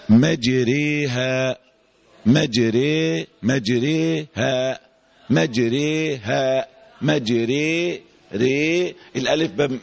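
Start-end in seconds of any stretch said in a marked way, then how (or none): 0.1-8.0 "مجريها" slow, with the raa vowel bent from a toward a long e; demonstrated imala. Shown as a demonstration. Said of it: "أنا عايز أعرف أنت هتنطقها إزاي". 8.3-8.9 "ري" alone as a long open "ree" between a and i; demonstrated imala. Shown as a demonstration. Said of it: "بميله ناحية إيه؟".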